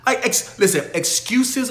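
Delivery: fed-up coach snapping back at a lame excuse; exasperated scolding. Real, not acted. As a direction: bark it at the lazy student.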